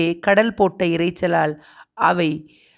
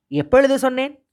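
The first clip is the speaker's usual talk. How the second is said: high, incredulous retort; indignant denial; 8 semitones higher, faster than usual. A narrator's reading. Master disputes the servant's claim, indignantly. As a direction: throw the question back hotly. Angry master denies saying it.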